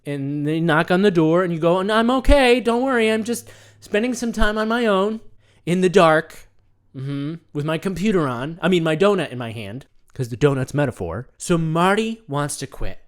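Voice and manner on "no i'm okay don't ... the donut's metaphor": mock ashamed reply.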